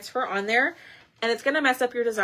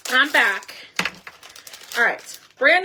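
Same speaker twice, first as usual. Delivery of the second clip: breathless after running; a bit winded from running; out of breath; 4 dB louder than usual. Real, not acted. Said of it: "a little bit out of breath 'cause I ran across my house".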